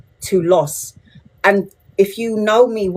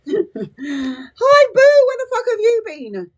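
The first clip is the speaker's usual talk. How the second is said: drawn-out call; much slower than usual. Real, not acted. Calling out to a viewer arriving.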